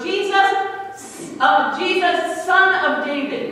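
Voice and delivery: mild mock call from the roadside. Blind man calling to Jesus, a mild mock call. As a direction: call out to Jesus, half-hearted. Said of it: "this blind man yelling".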